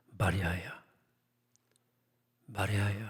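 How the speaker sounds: soft, gentle, loving tone, very low. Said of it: "부드러운 목소리로 그녀의 이름을 부르십니다".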